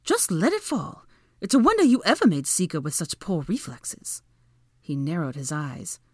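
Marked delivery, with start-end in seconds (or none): 0.0-4.2 high-pitched mocking woman; taunting. A narrator's reading. Woman mocking her rival's reflexes, taunting. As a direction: needle them in a higher voice.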